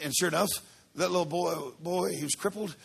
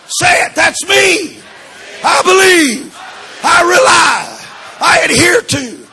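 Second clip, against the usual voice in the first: preaching; 5 semitones higher, 15 dB louder than usual. Acted. Preaching call and response.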